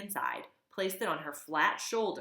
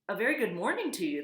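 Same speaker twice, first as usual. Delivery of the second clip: bright, fast, carrying hello across water; friendly robot booming a hello; friendly booming greeting; 4 semitones higher, 4 dB louder, faster than usual. Acted. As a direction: call out cheerfully over the pond. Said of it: "friendly voice boomed over the water".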